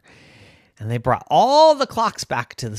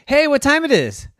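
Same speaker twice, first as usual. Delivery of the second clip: lightly voiced asker; 12 semitones higher, 5 dB louder than usual. Asker calls to Min.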